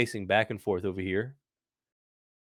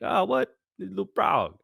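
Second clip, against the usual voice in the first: high, cooing little voice; louder, pitched-up mock surprise; retold delighted surprise; 11 semitones higher, 4 dB louder, slower than usual. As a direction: react high-pitched to a tiny creature. Retold reaction to tiny frog.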